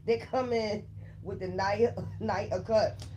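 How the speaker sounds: words broken up by laughter; laughing. Real, not acted. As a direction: laugh your way through the phrase. Laughs while reading the card.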